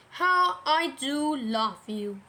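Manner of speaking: slow, drawn-out affection; unhurried, emphatic fondness; fond Christopher Robin. Acted. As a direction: say it slowly and heartily. Christopher Robin tells Pooh he loves him.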